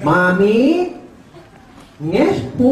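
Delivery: imitated muffled cleft-palate speech; cleft-palate speaker. Child greeting his mother, imitated cleft-palate speech. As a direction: mimic garbled cleft-palate consonants. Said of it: "Sasabihin ng ngongo".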